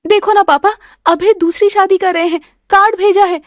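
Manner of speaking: high, upset plea to father; crying out to papa for help; tearful appeal. Acted. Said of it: "क्यों शोर मचा रखा है?". (पापा से रोते हुए गुहार)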